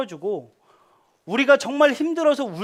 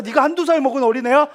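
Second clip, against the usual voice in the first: mock scolding; 3 semitones higher, 4 dB louder than usual. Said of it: "제가 이랬을까요?".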